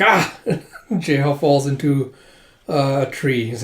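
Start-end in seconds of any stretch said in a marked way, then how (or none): 0.0-0.4 short high "ah" of a fall; brief acted yelp; mock falling cry. Cry as he falls.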